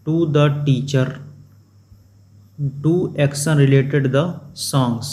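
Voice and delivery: slow, word by word English read; slow reading aloud. Shown as a demonstration. Teacher reads textbook line to class, slow and deliberate. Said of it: "reading textbook English slowly".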